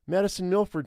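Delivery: lightly acted girl voice; teenage girl. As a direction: introduce yourself as a proud teen girl. Girl introduces herself in the story.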